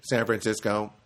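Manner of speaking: even-toned robotic answer. Retold or imitated. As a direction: answer like an automated agent. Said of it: "was quite a robot".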